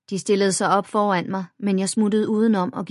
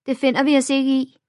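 put-on indignant girl; 7 semitones higher, 6 dB louder than usual. A narrator's reading. Second bully girl threatens.

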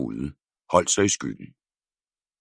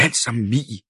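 exasperated scolding; 9 semitones higher than usual. A narrator's reading. Breathless mother scolds.

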